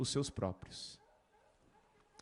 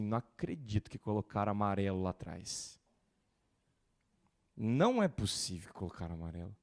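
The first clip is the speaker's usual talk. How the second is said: low, soft mock grumble; fussy churchgoer grumbling quietly; 7 semitones lower, 6 dB quieter than usual. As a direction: mutter like a fussy member. Mocking a picky churchgoer.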